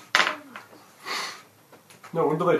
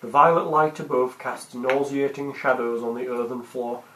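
scene narration. Acted. GM scene setting.

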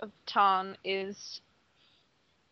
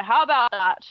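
raised, louder and higher; 6 semitones higher, 6 dB louder than usual. Shown as a demonstration. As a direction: project it like a shout. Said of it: "talk loudly like I normally do".

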